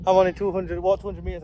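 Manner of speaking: panting between words after the climb; breathless from walking uphill; out of breath. Real, not acted. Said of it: "I'm out of breath already".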